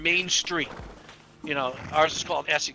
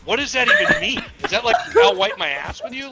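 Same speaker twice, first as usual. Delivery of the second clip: incredulous; 8 semitones higher, 8 dB louder than usual. Retold or imitated. Retelling disbelief, laughing.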